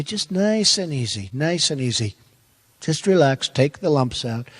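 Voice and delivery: calm fatherly advice. Retold or imitated. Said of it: "He'd say".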